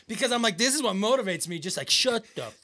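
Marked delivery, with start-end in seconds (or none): 1.9-2.5 slow, loud mock fury; hammed-up drawn-out telling-off; exasperated outburst. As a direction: spell it out slowly and loudly, fed up. Venting at trainer's story.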